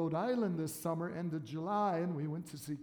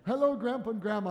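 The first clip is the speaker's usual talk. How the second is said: higher, louder announcing; bright announcement; 4 semitones higher, 5 dB louder, much faster than usual. Retold or imitated. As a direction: read the shirt proudly. Quoting baby shirt again.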